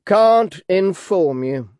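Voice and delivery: talking through a mouthful; chewing on lunch while speaking; mouth full. A narrator's reading. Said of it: "apparently to his lunch".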